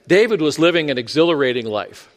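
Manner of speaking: dry sarcastic delivery. Shown as a demonstration. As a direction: say it with mock enthusiasm. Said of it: "that's really sarcastic".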